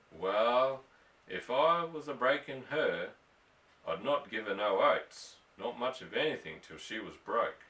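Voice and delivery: lightly voiced weathered cowhand spinning a yarn; easygoing cowboy telling a hard story; old bronco buster. Ross the bronco buster's long yarn.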